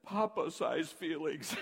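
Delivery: put-on a small child naming her feelings; child's answer. Daughter answering her mother while weeping, slow and high. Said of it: "She said".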